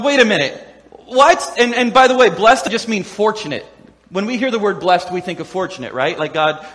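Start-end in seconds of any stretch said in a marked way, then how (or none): 0.0-1.5 mock startled disbelief. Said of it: "they're going".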